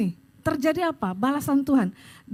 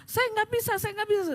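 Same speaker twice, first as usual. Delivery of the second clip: imitating crying woman; 9 semitones higher, 3 dB quieter than usual. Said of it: "dia nangis jerit-jerit".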